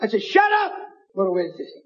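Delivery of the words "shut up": high-pitched exclaimed command; retold sharp rebuke. Preacher to hollering woman, retold high-pitched rebuke. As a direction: re-enact cutting off a heckler, pitch jumping up.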